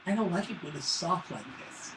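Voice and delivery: put-on soft, whiny kid voice complaining about pizza; whiny little son. Dad imitates his son whining about soft pizza, quiet and mopey. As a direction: mope it out like a sulky boy. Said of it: "That's really how my son sounds".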